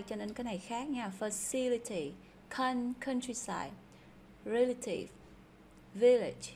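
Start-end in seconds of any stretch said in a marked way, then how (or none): 1.2-2.1 "Facility" with the stress on CIL; second-syllable stress. Shown as a demonstration. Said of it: "nhấn âm thứ hai". (nhấn âm thứ hai trong "Facility")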